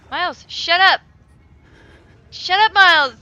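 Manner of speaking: loud panicked yell; yelling shut up. Real, not acted. Player yelling at noisy Miles, panicked shout.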